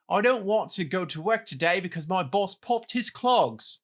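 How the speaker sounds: put-on British accent; lightly hammed British accent. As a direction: read it in a mock British accent. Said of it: "do it in your British accent".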